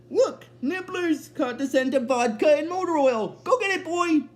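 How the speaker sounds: excited high-pitched urging; Fry. Retold or imitated. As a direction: pitch it up, egging the pet on. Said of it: "Fry gets excited because he's like".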